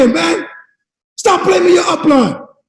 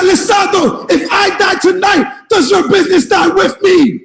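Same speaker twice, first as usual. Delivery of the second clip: louder repeat for the back; 2 semitones higher than usual. Retold or imitated. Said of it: "for my people who can't hear in the back".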